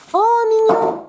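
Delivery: aigu, traînant, fond de tendresse; attendrissement. Real, not acted. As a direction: craque devant un dessin trop mignon. S'attendrit devant un dessin. (attendrie, voix perchée)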